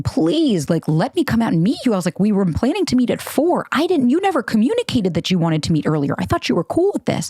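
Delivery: acted-out desperate appeal; pleading. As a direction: plead your case, voice climbing toward the end. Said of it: "I begged him, pleading".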